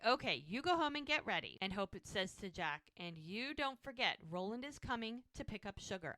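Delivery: mildly bossy retelling; giving orders. Retold or imitated. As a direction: lightly voice a woman organizing everybody. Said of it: "like she's giving orders to everybody".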